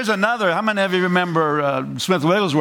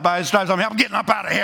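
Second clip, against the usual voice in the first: plain, matter-of-fact confidence; casual sure-footed faith; spirit of faith; 3 semitones higher, much faster than usual. Shown as a demonstration. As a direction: say it like you're already getting up. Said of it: "Spirit of faith is laying about".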